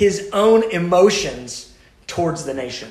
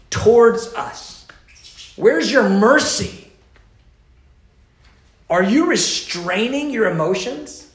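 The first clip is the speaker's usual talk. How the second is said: louder, higher, slow pleading cry; intercessory cry; 5 semitones higher, 4 dB louder, slower than usual. Acted. Prophet crying out to a silent God, loud and pleading. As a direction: cry out to God, drawing each question out. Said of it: "in this intercessory cry".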